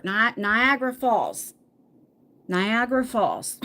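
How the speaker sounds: Niagara said slowly as "nai-AG-ra", rhyming with Viagra; slow, deliberate Niagara with "eye-AG" in the middle; practised pronunciation. Shown as a demonstration. Vlogger practises the name using Viagra, careful slow Niagara. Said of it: "You can say Niagara".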